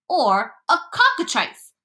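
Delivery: high, drawn-out exclamation; mild yell. A narrator's reading. Police chief offers his own guess, mildly yelling. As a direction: call it out high and slowly. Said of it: "yelled the chief of police".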